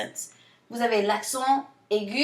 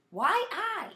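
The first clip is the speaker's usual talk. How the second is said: playful quip; 9 semitones higher than usual. Acted. Playful memory trick.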